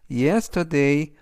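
"Yesterday" spoken slowly and clearly; slow model reading. Shown as a demonstration. Teacher reading the example word to learners, slow and clear. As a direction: draw out "Yesterday" for the class. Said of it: "활용 문장 보시겠습니다".

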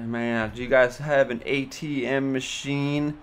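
put-on slow, slurry drunk question; drunk woman. Tipsy customer asking the clerk for an ATM, slow and slurred. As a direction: stretch it out like you can barely focus. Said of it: "stuttering her words".

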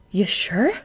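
hushed whispered question. Acted. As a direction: whisper it, hiding.

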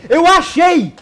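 sudden triumphant burst; excited shout. Real, not acted. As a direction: yell it out, thrilled you found it. Finds the pig, shouts. (grito empolgado)

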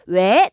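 왜 rising like answering a call; second-tone demonstration. Shown as a demonstration. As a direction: ask 왜 as if someone called you, pitch sweeping up. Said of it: "누가 날 불렀다 생각하시고요". (누가 부른 듯 왜를 끝까지 올려서)

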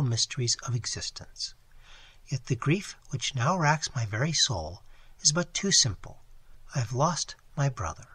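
softly voiced young lady, a hint of sorrow; distressed young lady. Young lady answers Phillips's offer of tea, softly. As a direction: speak gently, pleading for sympathy.

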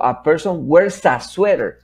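firm, emphatic model sentence with linked words; forceful teaching voice. Shown as a demonstration. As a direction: drive the linked words home for learners. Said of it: "Lo digo con fuerza".

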